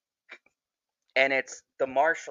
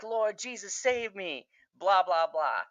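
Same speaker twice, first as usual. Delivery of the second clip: high mock plea, softened holler; retold hollering; 5 semitones higher than usual. Prisoner calling on Jesus from the car, mock hollering. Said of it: "Boyd starts hollering in the back of the car".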